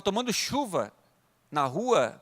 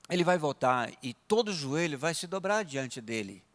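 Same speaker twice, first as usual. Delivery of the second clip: laid-back calm; 4 semitones lower than usual. Retold or imitated. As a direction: answer hostility calmly and gently. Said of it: "assim, meio tranquilão".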